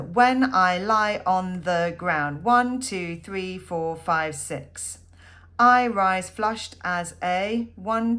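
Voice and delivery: slow, loud reading with each syllable counted out; counting the beats. Shown as a demonstration. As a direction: read the line slowly, then tick off the syllables one by one. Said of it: "So that's how the, that pattern works".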